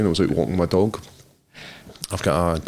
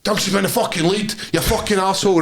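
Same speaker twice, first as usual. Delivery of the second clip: higher pitched, a mock angry shout back; retold raging yell; 10 semitones higher than usual. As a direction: fire the insult back at the woman. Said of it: "I was raging".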